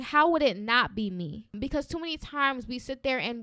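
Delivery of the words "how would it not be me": confident rhetorical question, pitched below the doubting version; self-affirming question. Shown as a demonstration. Host showing listeners what to start saying, self-affirming. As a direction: turn the doubt round with assurance. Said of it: "I want you to start saying".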